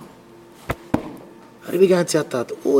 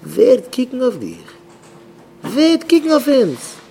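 high, loud wailing question; impassioned outcry; 9 semitones higher, 5 dB louder, faster than usual. Acted. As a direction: cry it out to the crowd, pitch soaring. Preacher cries out rhetorical question.

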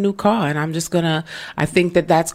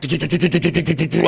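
car vibration noise; faster than usual. Retold or imitated. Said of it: "she was vibrating, like".

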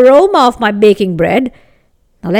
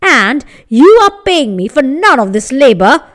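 indignant baker; 4 dB louder than usual. Acted. Baker's angry demand.

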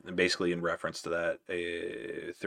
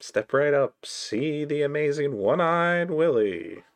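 high, slow carnival barker call; chirpy trade show pitch; 9 semitones higher, 7 dB louder, slower than usual. Pretend. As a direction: step right up, sideshow barker.

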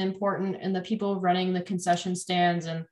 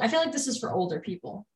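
whispering; 6 dB quieter, faster than usual. Real, not acted. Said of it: "Why are we whispering?".

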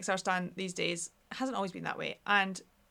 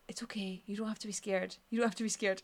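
soothing whisper; 5 dB quieter than usual. Retold or imitated. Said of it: "I kept saying to Rory".

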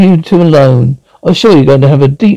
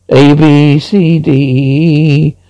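alphabet recital; slower than usual. Acted. Teaching a child the alphabet.

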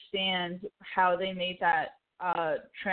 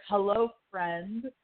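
slow, hurt greeting, a touch of sadness; slow mock-wounded hello to an old friend; mild heartbroken; 3 semitones higher, slower than usual. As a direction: stretch the hello out like it hurts to say. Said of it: "that scene just breaks my heart".

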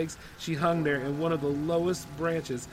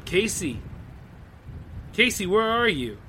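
put-on loud, higher panicked call for a lost child; frantic calling; 5 semitones higher, 3 dB louder than usual. Mother calling through the house for her missing toddler, panicked shout.

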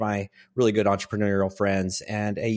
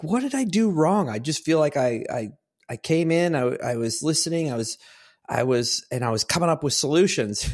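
put-on pitched-up, baffled retelling of the young man; bewildered plea; 5 semitones higher than usual. Young man asking older friends what he did wrong, baffled. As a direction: ask it like you truly can't see the mistake.

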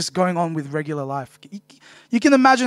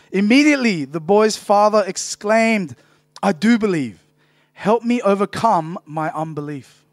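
reading with conviction. Real, not acted. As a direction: read it out with oomph and conviction. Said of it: "Let's read with some oomph, some conviction".

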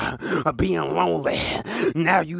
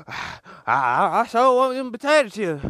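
craving onlookers; 6 semitones higher than usual. Retold or imitated. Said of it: "they sitting there like".

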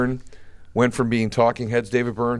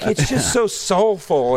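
slow, higher, swooning fan gush; mock aging liberal; 6 semitones higher, slower than usual. Mocking aging liberals gushing over a singer. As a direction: drawl it like a dreamy fan. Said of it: "they're like".

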